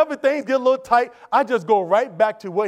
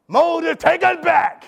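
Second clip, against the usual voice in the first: pleading call; 7 semitones higher, 4 dB louder, much slower than usual. Retold or imitated. Israelites pleading with Moses.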